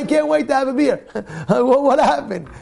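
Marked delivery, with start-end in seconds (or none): 0.0-1.1 high, eager voice; can't wait for it; mildly hammed-up eagerness; eager beer lover. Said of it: "now he's like".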